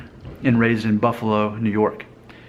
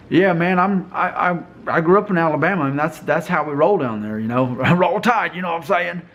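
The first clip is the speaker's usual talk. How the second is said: higher-pitched, hammed-up Alabama accent; Southern accent; 6 semitones higher than usual. Shown as a demonstration. Vlogger showing he can put on the accent, hammed-up Alabama Southern. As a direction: put on an exaggerated Southern good ol' boy accent. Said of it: "I could put on the accent".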